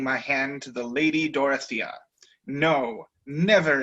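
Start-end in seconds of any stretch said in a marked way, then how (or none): 2.5-3.8 exclaiming. Acted. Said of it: "exclaimed I".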